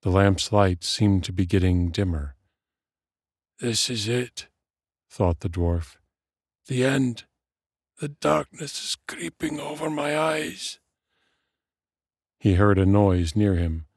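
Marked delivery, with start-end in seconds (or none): 3.6-4.5 put-on higher, softened old dwarf's thought; lightly voiced dying dwarf. A narrator's reading. Old dwarf thinking he is at his end, resigned dying voice. 6.7-10.8 high, faint dying dwarf voice. A narrator's reading. Dwarf thinking as darkness creeps in, feeble dying voice.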